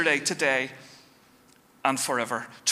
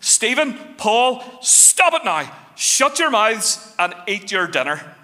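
high-pitched mum scold; slower than usual. Retold or imitated. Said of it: "get to that high pitched".

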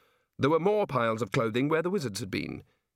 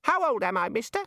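put-on high child's questioning voice; small child; 10 semitones higher than usual. A narrator's reading. Shrunken wizard asks Ponder his age, high childish voice. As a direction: squeak it up like a little kid.

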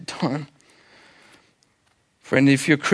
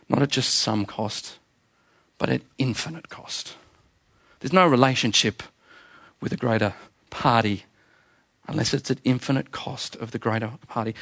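hushed solemn; 3 semitones lower, 5 dB quieter than usual. Real, not acted.

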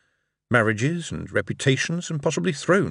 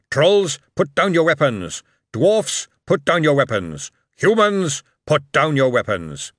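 calling the order across the valley, louder; retold shout; 4 semitones higher, 5 dB louder than usual. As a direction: bark each order down the line. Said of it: "then someone shouted".

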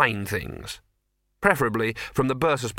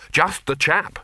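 put-on hearty old wizards; 5 semitones higher, 4 dB louder, slower than usual. Senior wizards agreeing.

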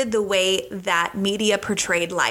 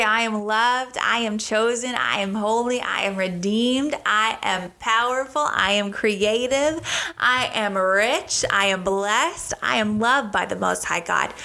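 affirmation; slower than usual. Acted. Voicing positive self-affirmations.

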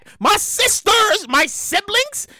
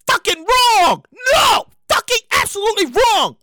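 emphatic outrage; 3 semitones higher than usual. Acted. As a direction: hit it hard and indignant. Comic punchline outrage.

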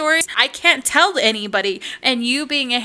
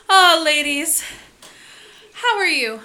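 friendly greeting; 5 semitones higher, 5 dB louder than usual. Retold or imitated. Sweet man greets stylists.

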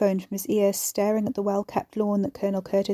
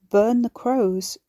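stunned repeat; 3 semitones higher, 4 dB louder, much slower than usual. Acted. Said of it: "Guy repeated".

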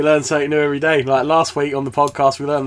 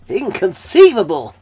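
drawn-out, higher, louder quote; film catchphrase; 7 semitones higher, 5 dB louder than usual. Acted. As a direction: proclaim it slowly like a film line. Quotes Princess Bride catchphrase.

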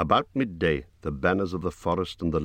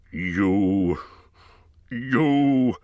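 louder, rising furious sputter; furious cry; 3 semitones higher, 4 dB louder than usual. A narrator's reading. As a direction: choke on the word in rage. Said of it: "cried Thorin".

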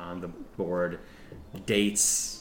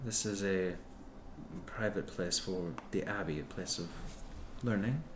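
prim nun; 6 dB quieter than usual. Acted. Nun lectures intruders.

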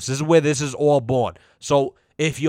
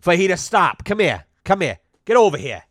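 calling the dog; 4 semitones higher than usual. Real, not acted.

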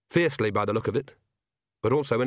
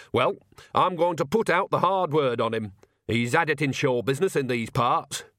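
lightly voiced cheeky old woman; a hint of a sly old granny; old witch voice; 3 semitones higher than usual. Nanny Ogg character voice.

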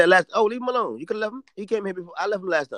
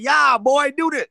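loud hyped-up hollering; hammed-up hype man yelling; mock hype shouting; 8 semitones higher, 8 dB louder, much slower than usual. Host imitating friends hyping him up loud. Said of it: "They act like, they like".

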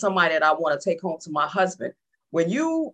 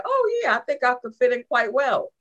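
mock eager; 5 semitones higher than usual. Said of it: "or was you like".

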